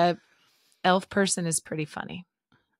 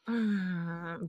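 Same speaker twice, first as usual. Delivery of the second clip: mock pleased hum; 10 dB quieter than usual. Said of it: "Jerry always loves to mimic that".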